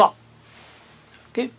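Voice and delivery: whispered check. Real, not acted. Teacher checks with class.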